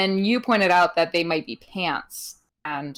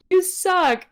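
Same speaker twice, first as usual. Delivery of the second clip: mock heckler shout; 11 semitones higher, 4 dB louder than usual. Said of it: "someone shouted".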